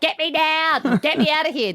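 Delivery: high pleading cry to be let down; mock scared plea. Scared contestant begging the hosts to get her down, mock panic. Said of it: "I'd go".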